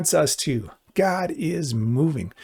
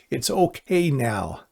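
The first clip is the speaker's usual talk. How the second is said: reassuring Jesus voice; slower than usual. Retold or imitated. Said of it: "he comes and he says to us".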